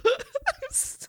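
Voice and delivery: breathless high whisper. Real, not acted. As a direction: whisper it, overwhelmed. Overwhelmed by romantic plot.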